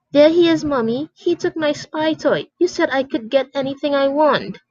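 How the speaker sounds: put-on high whining little boy; whiny kid. Spoiled boy whining to his mother about the toy. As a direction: whine like a spoiled child.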